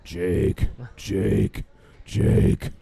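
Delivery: lightly voiced drunk calling a name; mock a drunk nagging for attention; imitating drunk calling. Drunk regular calling the bartender again. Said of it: "You wouldn't stop yelling my name".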